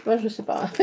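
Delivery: usual speaking voice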